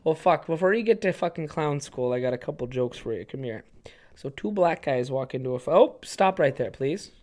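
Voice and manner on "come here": hushed, drawing someone close; whispered invite. Acted. Townie pulls the kid close to whisper a joke. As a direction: whisper it conspiratorially.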